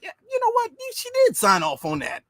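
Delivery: high mocking falsetto of a politician. Mocking a politician who signed anyway, in high falsetto. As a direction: sneer it out in a high put-on voice.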